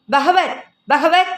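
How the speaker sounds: high, slow call through the bathroom door. Acted. Yamini calls her sister through the shut bathroom door, high and drawn out. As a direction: call her sister's name over the running water.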